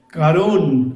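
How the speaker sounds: "কারণ" thrown out loud and short; loud and clipped. Retold or imitated. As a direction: bark "কারণ" as its own word. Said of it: "আমি কেটে কেটে বলছি". (জোরে, কেটে কেটে "কারণ")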